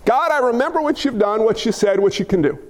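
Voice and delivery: slowing, surrendering prayer; mild earnest prayer. Acted. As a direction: pray it humbly, slowing at the end. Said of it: "how Jesus prayed".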